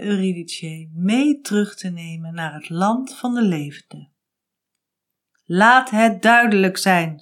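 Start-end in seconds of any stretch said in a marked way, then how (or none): 5.4-7.2 Hades, stern. Acted. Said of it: "sprak Hades".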